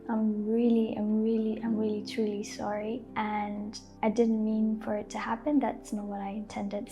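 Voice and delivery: soft, sincere "I'm really truly sorry"; soft apology. Shown as a demonstration. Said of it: "tone is softer and gentler".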